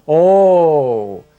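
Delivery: mock surprise. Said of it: "opens up his eyes really wide".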